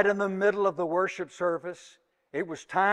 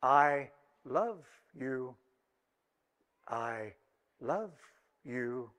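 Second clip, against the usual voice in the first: slow, low, soft talking-doll voice, word by word; mechanical doll voice; 6 semitones lower, 8 dB quieter, slower than usual. Acted. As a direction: recite it like a wind-up doll, each word set apart. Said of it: "a mechanical voice was heard to say".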